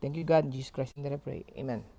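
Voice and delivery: earnest spoken prayer. Acted. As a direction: pray sincerely to God aloud. Leads an opening prayer.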